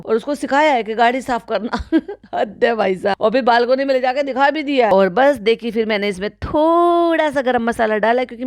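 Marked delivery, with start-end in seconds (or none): none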